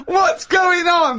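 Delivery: high, slow, whiny imitation; mock him in a shrill whine; mocking Carl's voice. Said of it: "Why am I talking like him?".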